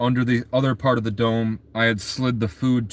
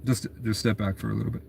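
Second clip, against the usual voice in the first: calm warning; 2 semitones lower, 5 dB quieter, faster than usual. Retold or imitated. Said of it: "And I go".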